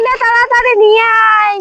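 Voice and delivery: loud, quick urging; urgent order. Acted. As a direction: hurry them along loudly. Hurrying someone to fetch something. (জোরে তাড়া দিয়ে বলা)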